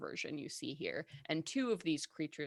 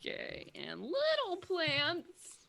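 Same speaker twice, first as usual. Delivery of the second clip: slow booming tree voice; talking tree; 9 semitones higher, slower than usual. Acted. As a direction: rumble it out like a treant. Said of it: "I'm gonna feel that treant voice tomorrow".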